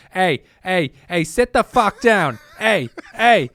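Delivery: put-on loud, high Boston accent bark; Ben Affleck Boston tough guy. Imitating Ben Affleck's movie Boston accent at them. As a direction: yell it like a Boston thug in a movie. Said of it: "Ben Affleck just going like".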